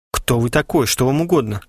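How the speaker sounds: ordinary delivery, nothing marked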